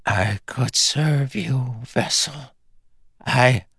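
high, slow, faltering offer; frightened plea. Acted. Trembling woman offers to serve, frightened pleading.

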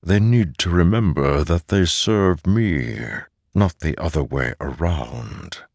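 slow, measured otherworldly authority; mysterious disembodied voice, commanding. Acted. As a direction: speak slowly as the unseen master. The mysterious voice speaks to Szeth.

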